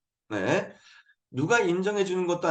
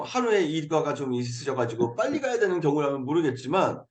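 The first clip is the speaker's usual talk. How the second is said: usual speaking voice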